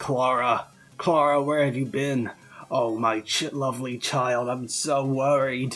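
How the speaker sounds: rough, deep, raspy big-man voice, worried and fretting. Describing a scene, the speaker voices a man at the door greeting clara, deep raspy voice. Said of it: "in a deep, raspy voice, he says".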